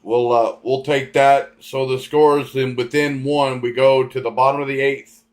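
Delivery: drowsy, slow, halting delivery; half asleep, words trailing and restarting; nodding off. Real, not acted. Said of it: "I'm dozing off".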